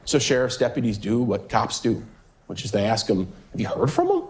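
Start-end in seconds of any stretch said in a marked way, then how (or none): 3.5-4.2 deputy voice. Retold or imitated. Voicing the deputies' question.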